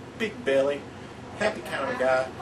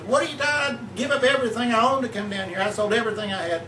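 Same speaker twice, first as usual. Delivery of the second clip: raised, high-pitched outburst in a joke; screaming, hollering; 5 semitones higher, faster than usual. Acted. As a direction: act out going ballistic, rushing the words. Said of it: "He started screaming and hollering".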